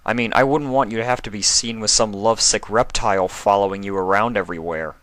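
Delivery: fast, bitter mock of her words; sarcastic. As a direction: throw her own insult back at her. Spike throws words back, sarcastic.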